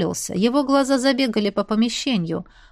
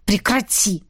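angry breath. A narrator's reading. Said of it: "зло выдохнул Этьен".

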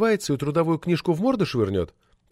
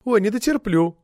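whiny; 7 semitones higher than usual. A narrator's reading. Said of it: "захныкала Неверова".

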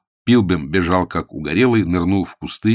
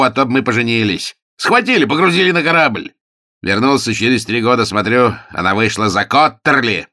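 melodramatic emotion; 6 semitones higher, 6 dB louder than usual. A narrator's reading. Melodramatic father reunion.

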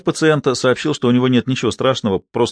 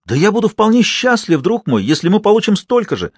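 excited; 10 semitones higher than usual. A narrator's reading. Binet excited at takings.

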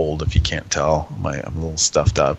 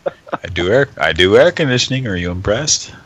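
1 mocking caller; 4 semitones higher, 3 dB louder than usual. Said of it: "He's like".

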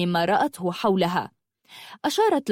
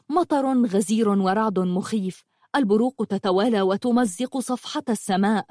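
ordinary delivery, nothing marked

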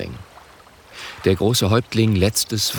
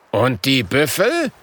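a touch of indignation; 4 semitones higher than usual. Acted. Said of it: "ruft Grüne Leuchte empört".

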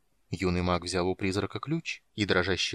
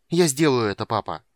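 defiant shout; 2 semitones higher, 8 dB louder than usual. Acted.

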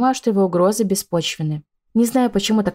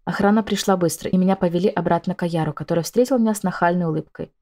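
ordinary delivery, nothing marked

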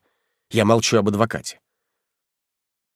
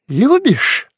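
venomous hiss; 6 dB louder than usual. Acted. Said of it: "шипит".

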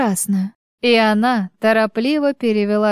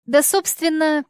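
hesitant; 6 semitones higher than usual. A narrator's reading. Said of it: "замялась она".

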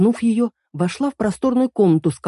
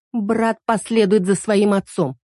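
curt; 3 semitones higher, slower than usual. Acted. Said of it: "резко ответила девушка".

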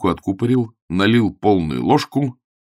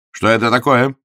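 a touch louder, stern; menacing question; 3 semitones higher, 5 dB louder than usual. Acted. Augustine demands of the landlady about breakfast, stern. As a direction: demand it threateningly. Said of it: "грозно спросил он".

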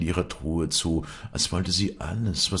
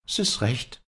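higher-pitched, defiant retort; unbending defiance; 8 semitones higher than usual. A narrator's reading. Daughter answers her father's threat, defiant. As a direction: answer him with a touch of stubborn defiance. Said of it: "Ein so unbeugsamer Trotz lag".

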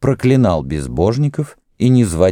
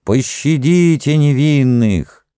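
pleading wail; 8 semitones higher, slower than usual. Acted. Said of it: "стонал и плакал народ".

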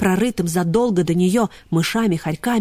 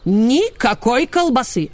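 curt refusal; 4 semitones higher, slower than usual. Acted. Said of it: "отрезала Нина Павловна".

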